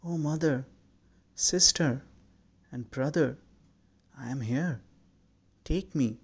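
gently voiced cry in separate, pleading phrases; understated pleading cry. A narrator's reading. Man calling to his lost mother, sister and brother, understated pleading cry. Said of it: "stretched out his arms and cried".

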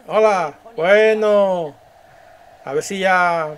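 lightly voiced leader, drawn-out greetings; leader greeting crowd. Leader thanking the people who came, drawn-out public greeting. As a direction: hail an adoring crowd.

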